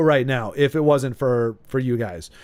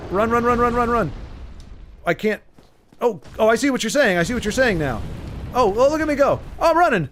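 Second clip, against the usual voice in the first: yelling while running away; 7 semitones higher than usual. Real, not acted. Running from dragon, shouting.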